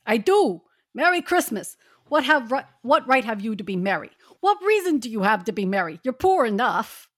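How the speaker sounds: a lightly voiced cranky miser; grumpy miser Scrooge. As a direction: sneer at the holiday like a bitter old skinflint. Scrooge's lines in group reading.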